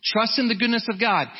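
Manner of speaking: lightly mock preachy, talking down; a hint of a lecturing elder; faintly condescending read of the verse. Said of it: "very condescending".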